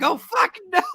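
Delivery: high, loud comic yelp; mock horror. Crew watching Charmy go over, mock horror. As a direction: yell it as a horrified onlooker.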